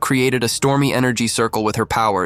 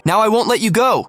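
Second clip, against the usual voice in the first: much higher and louder, furious cry; angry shout; 11 semitones higher, 3 dB louder than usual. Acted. Hualinger enraged at Alex after he blocks her, furious shout. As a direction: scream it as she takes to the air. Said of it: "She shouted".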